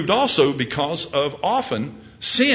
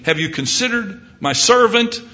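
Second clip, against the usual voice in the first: high, raised question with servant lifted; God proudly pointing out his servant; God calling out; 6 semitones higher than usual. Acted. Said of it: "God might be saying".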